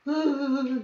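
drawn-out mock wail; imitated crying. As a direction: mimic a father's sobbing wail. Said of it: "He cried".

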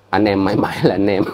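lightly mocking sing-song imitation; a hint of sneering mimicry; mocking quote. Vlogger mocking a rival's message, lightly sneering. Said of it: "drama xong, à, chuyện nó hết".

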